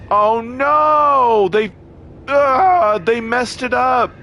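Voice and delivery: sudden high, loud "oh no"; shocked outcry. Real, not acted. Gamer finding an old bug back, shocked outcry. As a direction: cry out in dismay at the game.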